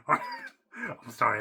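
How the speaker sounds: high, slow apology through a laugh. Real, not acted. Vlogger laughing off his joke at another fandom. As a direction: laugh out the sorry after a cheap shot.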